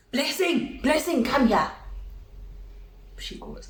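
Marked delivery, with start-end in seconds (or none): 0.1-1.7 softly imitated dad calling his daughter; retold fatherly summons; summoning dad. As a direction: call her over, subdued but firm.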